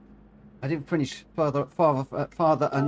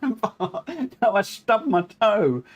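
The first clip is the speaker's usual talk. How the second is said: emphatic correction; 7 semitones higher, much slower than usual. Real, not acted. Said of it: "I smacked my toe on the rig".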